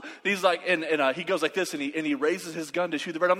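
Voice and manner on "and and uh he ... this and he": ordinary delivery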